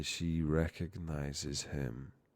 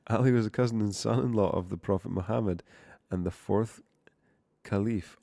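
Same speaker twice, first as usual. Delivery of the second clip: amazed reread; 3 semitones higher, 7 dB louder than usual. Real, not acted. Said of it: "reading again, louder".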